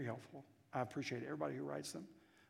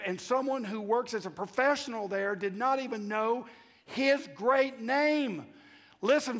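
rising to a loud, high-pitched preaching shout, slowing at the end; preaching climax; 9 semitones higher, 11 dB louder than usual. Real, not acted. Preacher rousing the congregation to full shouting fervor. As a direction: build to full-force fervor and hammer it home.

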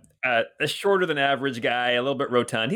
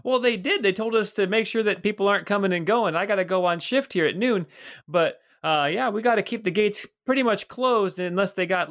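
put-on high, hearty old watchman greeting a friend; jolly older guard voice, pitched up; Bert the old guard; 6 semitones higher than usual. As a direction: boom out a cheery hello as a portly guard. GM continues Bert's voice.

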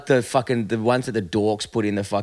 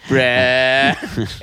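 motorbike brap. Pretend. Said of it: "It's kinda catchy now".

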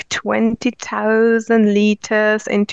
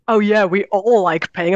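imitating a sarcastic onlooker; mildly mocking, put-on agreement. People at the cafe teasing her for liking to pay, sarcastic. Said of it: "sometimes sarcastically".

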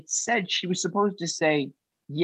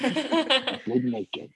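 laughing; 11 semitones higher, much slower than usual. Real, not acted. Laughing at the name story.

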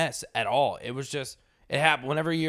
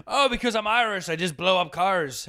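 imitating a teasing complaint, pitched up then slowing; mock offence; 5 semitones higher than usual. Irish stranger teasing the drinkers over car bombs, mock offence. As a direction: put on indignation as a wind-up. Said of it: "I'm just giving you shit".

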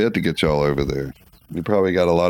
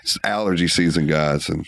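stuffy nose. Real, not acted. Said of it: "sound like I got a clothespin on my nose".

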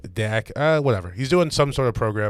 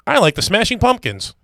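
higher, put-on white guy voice; 8 semitones higher than usual. Talk about it in this voice.

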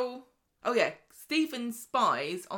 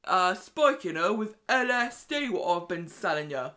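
put-on menacing southern accent, pushed louder and slowing down; 3 semitones higher, 8 dB louder than usual. A pub blackmailer threatens Stephen, in a loud southern accent. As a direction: lean into a southern accent as you close in. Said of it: "I wanted to do Rufus's accent".

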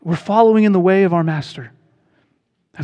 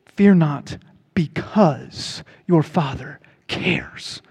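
tender reassurance; 3 semitones lower, 3 dB quieter, much slower than usual. Real, not acted. Tender close after a long pause.

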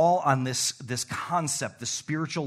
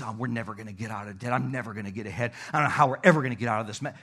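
mock gloomy worrier; 5 semitones lower, much faster than usual. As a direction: rattle off the worries under your breath. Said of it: "speak negative things over your finances".

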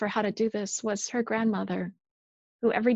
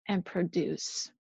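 softer, slower, trailing off; fading repetition; 4 semitones lower, 6 dB quieter, slower than usual. Shown as a demonstration. Preacher fading the endless demand to produce, slowly. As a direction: let the last repeat sink away. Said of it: "repeated phrase, fading take".

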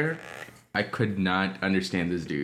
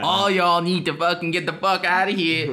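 higher, mock-angry outburst; hammed-up telling-off, pitched up; mock hostile quote; 7 semitones higher, 4 dB louder than usual. Imitating people ordering Dev out, mock hostile. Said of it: "That's what people have said to Dev".

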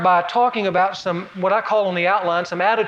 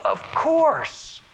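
of course, obviously; much slower than usual. Pretend. Reader answering Paul's question, obvious swoop. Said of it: "the reader would go".

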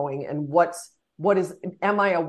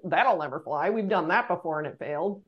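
lower, muted naysayer aside; privately dismissive, pitched down; behind-the-back dismissal; 3 semitones lower than usual. Acted. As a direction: imitate a sceptic once out of the meeting. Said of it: "And outside the room, they're like".

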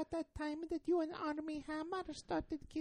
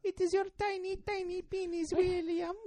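Italian grandmother voice. Pretend. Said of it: "You sound like an Italian grandmother".

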